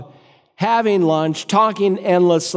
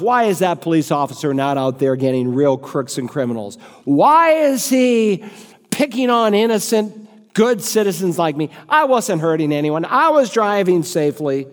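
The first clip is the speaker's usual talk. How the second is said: hammed-up outrage at the traffic cop; indignant rant. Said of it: "Mister Arson is absolutely infuriated".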